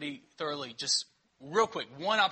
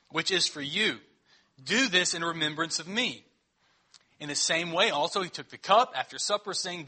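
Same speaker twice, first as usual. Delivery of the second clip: measured, solemn Bible reading; scripture reading. Acted. Pastor reading the Lord's Supper text to the church, solemn.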